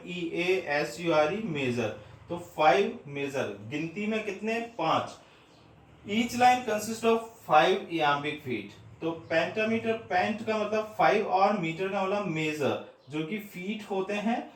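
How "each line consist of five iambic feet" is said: very slow, word by word, as if for notes; slow dictation. Shown as a demonstration. Teacher to exam students, dictating the rule very slowly. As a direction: spell it out slowly so students can write.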